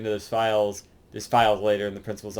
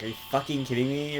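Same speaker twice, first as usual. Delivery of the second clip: Victoria impression; 3 semitones higher, 6 dB quieter, faster than usual. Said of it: "you look like Victoria impression there".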